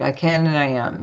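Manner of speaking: half-hearted mumbled recital; unconvinced. Retold or imitated. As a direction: repeat it dutifully without meaning it. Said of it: "say it like you mean it".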